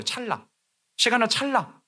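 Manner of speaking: usual speaking voice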